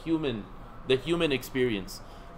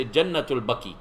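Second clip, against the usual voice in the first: Jannatul Baqi said the Desi way, Baqi like "bucky"; lightly Desi-style Jannatul Baqi; Desi pronunciation; 3 semitones lower than usual. Shown as a demonstration. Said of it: "Except if you're Desi".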